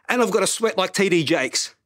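out of breath from the impressions; sigh, then talk on slightly winded; puffed out. Real, not acted. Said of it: "I'm puffed out just trying to pretend".

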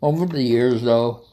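talking through a mouthful; words round a bite of chicken; mouth full. Real, not acted. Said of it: "shouldn't talk with my mouth full".

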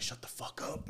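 soft, half-whispered comeback; retold under-the-breath retort; muted retort. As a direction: drop the voice to brush off the teasing. Retold reply to teasing family.

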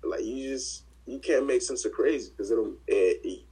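loud frustrated outburst; angry. Real, not acted. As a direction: vent it loud and fed up. Venting anger about police killing.

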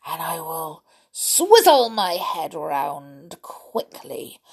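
gloating crocodile voice. Acted. Crocodile gloats over his plan.

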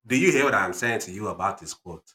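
put-on insistent African-accented lecturer. Dad questions listener about quote, African accent. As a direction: press the point in an African accent. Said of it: "African accent".

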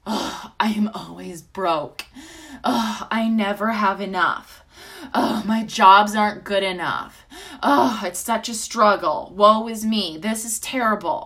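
self-pitying, overdone woe-is-me lament; hammy stage actor. Retold or imitated. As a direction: ham up the victim's sighing complaint. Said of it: "my thoughts were like".

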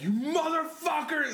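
high, drawn-out mock curse; aggressive dad. Son imitating dad when team starts losing, aggressive. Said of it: "hella aggressive. And we start losing".

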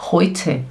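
heute pronounced "hoi-te". Shown as a demonstration. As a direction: say "heute" with an "oi" vowel. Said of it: "faz som de oi". (heute com som de "oi")

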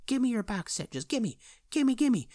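high, insistent mock begging; greedy fan begging. Fan throwing money for a box set, greedy begging. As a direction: squeal for it like a desperate fan.

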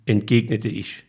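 plain reading voice

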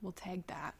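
soft unvoiced aside; whispered aside. Real, not acted. Noting to tag the account, whispered aside. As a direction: drop it under your breath. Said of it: "aside to friend".

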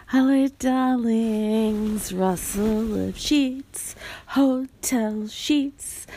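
slow, drawn-out camp greeting; campy drag queen. Pretend. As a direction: draw out each word with camp flair.

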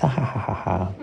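lightly acted ha ha laugh; papa's mild laugh. Papa laughing at Teo's Trader Joe's answer, mild mock laugh. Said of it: "And Papa laughed".

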